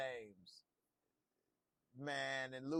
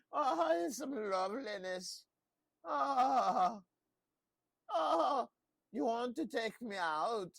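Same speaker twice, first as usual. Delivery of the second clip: high, loud gushing delight; Papa Tarly impression; 10 semitones higher, 7 dB louder, slower than usual. Recapping the show, mimicking Papa Tarly's high delighted gush. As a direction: squeal it out like a giddy Samwell type. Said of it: "That's my Papa Tarly impression".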